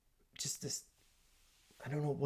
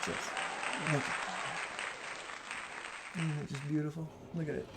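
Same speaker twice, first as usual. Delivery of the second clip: awed whisper; 2 semitones higher, 8 dB quieter than usual. Real, not acted. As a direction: whisper it like something sacred. Showing off his new hat.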